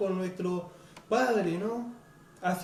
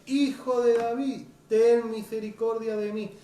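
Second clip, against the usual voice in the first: imploring cry. Retold or imitated. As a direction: beg for mercy, stretching the words. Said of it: "dice que él clamaba".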